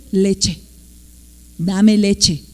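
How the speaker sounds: put-on a child's short, matter-of-fact "leche", not stretched; child finally saying it. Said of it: "un día el niño dice". (niño apenas imitado que dice "leche" sin alargar)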